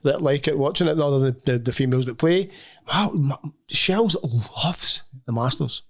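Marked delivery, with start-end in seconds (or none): 2.9-5.8 hushed, slow and reverent; slow awed whisper. Acted. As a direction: breathe it out in awe. Reverent repeat of wife's line.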